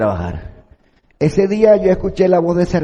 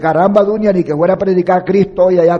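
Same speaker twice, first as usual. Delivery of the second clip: exasperated quote; 5 semitones higher, 5 dB louder than usual. Retold or imitated. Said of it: "que dije".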